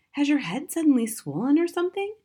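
put-on high girl's voice, wondering; innocent little girl. A narrator's reading. Daughter to father stuck in his hat, innocent. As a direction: wonder aloud like an innocent child.

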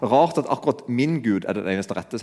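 lightly ironic, a touch of mock wonder; mild imitation of an ironic comic; ironic Ricky Gervais. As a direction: say it with a dry wink. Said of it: "sier han, ironisk".

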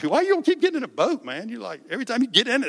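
rapid-fire playful scolding; mock exasperation. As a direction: tease them in disbelief. Mock-scolding the disciples in boat.

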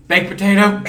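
high, loud mock blurt; retold fluster. Friend ordering soup by the wrong name, mock flustered. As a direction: blurt it out in imitation panic. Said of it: "he got a little flustered".

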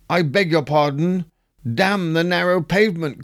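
a disguised man's voice slipping out, lightly acted; masculine monstrous tone. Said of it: "in a tone and accent so very masculine and monstrous".

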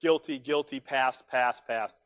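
usual speaking voice

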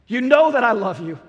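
loud, exasperated insistence; frustrated. Acted. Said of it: "gets a little bit frustrated".

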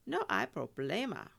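upbeat reassurance with a smile; easy, smiling Spanish reply. A narrator's reading. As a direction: say it brightly, waving the worry away.

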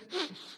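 a quick audible sniff at the fruit. Shown as a demonstration. Pastor shows the congregation how he sniffs fruit, one short sniff. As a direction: sniff it like testing a pineapple. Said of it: "And you sniff it".

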